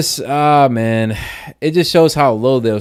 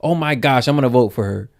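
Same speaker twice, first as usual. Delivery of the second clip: higher, gushing, hammed-up dumb fan voice; mocking an easily swayed voter in a dopey higher voice; mock gullible voter; 4 semitones higher than usual. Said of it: "But the stupid folks are like".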